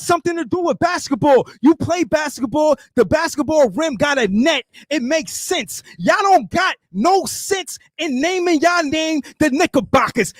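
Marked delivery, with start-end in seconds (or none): 1.6-10.3 wrestling promo. Acted. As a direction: bark it like a wrestler on the mic. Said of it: "your rant and your wrestler voice".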